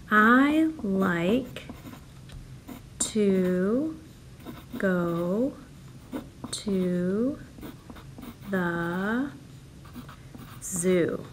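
one word at a time, long pauses between. Shown as a demonstration. Teacher spaces out each word for children to count. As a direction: tap out every word separately. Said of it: "count the words in your sentence".

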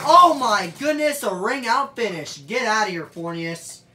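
loud, high burst of amazement; thrilled exclamation. Real, not acted. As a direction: call the finish, blown away. Amazed at a ring out.

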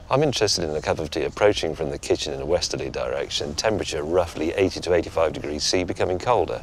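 a light send-up of a TV weatherman; weather forecaster voice. Retold or imitated. Husband answering his wife like a lightly mocked weather forecast. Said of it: "speak like a weather forecast".

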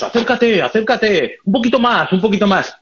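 imitating Marcos coaxing; coaxing cameraman. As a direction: lure him closer step by step. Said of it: "Y Marcos".

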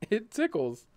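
high, tickled exclamation; lightly acted giggliness; giggly delight. A narrator's reading. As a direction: say it as if being tickled.

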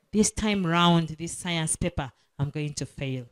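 hushed, very soft doubting whisper; small whisper. Acted. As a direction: breathe it like a voice behind your back. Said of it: "A small whisper behind you".

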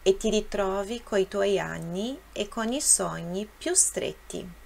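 measured model reading in Italian; read aloud for repetition. Shown as a demonstration. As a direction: read each verse clearly for learners to follow. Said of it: "eu vou ler e vou deixar um tempo".

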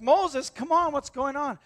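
high, loud exasperated call; Joshua calling up to Moses. Retold or imitated. Joshua in the battle calling up to Moses on the hill, exasperated shout.

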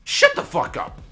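yelling angrily; loud furious yell; angry shout. Real, not acted. Yelling at teammate in game.

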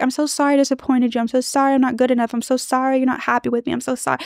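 mock over-apologetic pleading, fast; imitating a wife's pity apology to her husband. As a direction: rattle off sorry after sorry. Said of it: "That's pity".

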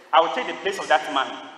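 firm, projected declaration; retold bold offer. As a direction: speak up as the volunteer stepping in. Volunteer speaks up suddenly, retold.

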